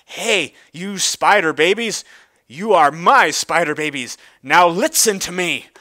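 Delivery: loud call to the swarm of babies. Acted. Big Mac calls loudly to his spider babies, calling out. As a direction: shout it over the noise to the spiderlings.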